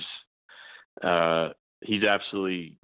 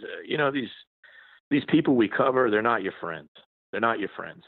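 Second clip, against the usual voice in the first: put-on lightly gruff Boston accent, pitched up; a hint of a crusty old Boston columnist; Tom Powers Boston accent; 4 semitones higher than usual. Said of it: "in his little Boston accent, kinda gruff".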